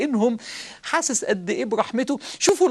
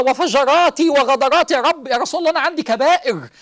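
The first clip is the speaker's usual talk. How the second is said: louder, raised pleading cry; desperate sinner; 4 semitones higher, 4 dB louder than usual. Retold or imitated. Sinner pressing the Prophet about his great sins, loud and urgent. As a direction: push it out urgently, begging. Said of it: "فقال".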